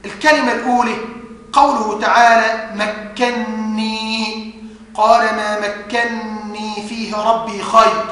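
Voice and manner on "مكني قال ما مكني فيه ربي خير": slow, soft recitation with a held doubled noon in مكني; merged noon. Shown as a demonstration. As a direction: hold one long nasal noon in مكني. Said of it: "استثنوا من ذلك كلمتين". (إدغام النون في مكني بغنّة)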